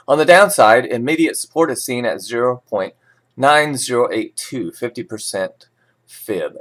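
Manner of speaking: steady newsreader delivery of market levels; measured financial news read. Acted. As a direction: read it like a forex bulletin. Reads forex news script.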